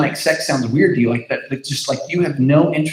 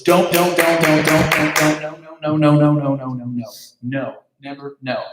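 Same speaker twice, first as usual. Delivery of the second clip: mock nagging repetition. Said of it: "basically all you ever heard was".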